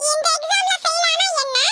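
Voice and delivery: defiant shout. Acted. Student shouting defiantly at the teacher.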